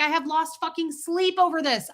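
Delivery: high, eager and emphatic; excited exaggeration. Shopper telling the bagger she's desperate to know, excited. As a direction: gush with excited urgency. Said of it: "because I was all excited".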